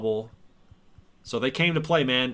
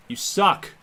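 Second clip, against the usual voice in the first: higher, louder mock heckle; taunting yell; 7 semitones higher, 4 dB louder than usual. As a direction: jeer at the batter. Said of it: "I'm gonna talk so much crap to him".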